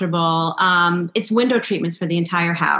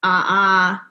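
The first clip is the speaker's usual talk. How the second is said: laughing refusal; 3 dB louder, much slower than usual. Retold or imitated. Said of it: "And I was like".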